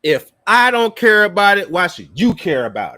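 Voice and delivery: mocking repeat. Mimicking guest's line from clip.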